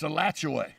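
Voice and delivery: Alachua ending in 'way', uh-LATCH-oo-way; town pronunciation. Shown as a demonstration. Naming the town near Santa Fe, Alachua with 'way' ending. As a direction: finish Alachua on a clear 'way'. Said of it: "So what is it, Alachua or Alachua?".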